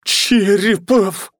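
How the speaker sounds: high, loud, slow furious growl; growled warning. Acted. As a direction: growl his name in rage. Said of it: "прорычала она". (прорычать в ярости)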